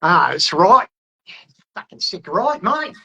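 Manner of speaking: hammed-up Aussie "mate" talk; comical Australian accent. Shown as a demonstration. Answering a viewer's question about doing Australian, comical Australian accent. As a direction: put on a broad, jokey Australian accent. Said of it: "can I do a good Australian accent".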